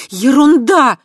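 loud, high outburst; indignant blurt. A narrator's reading. Kava indignantly rejecting the marriage idea. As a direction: spit it out in outrage. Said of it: "выпалила она".

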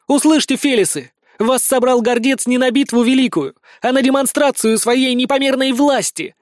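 high, loud call to the warriors; rally the crowd against him; proclaiming. A narrator's reading. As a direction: daughter proclaiming to the assembled warriors.

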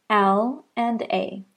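ordinary delivery

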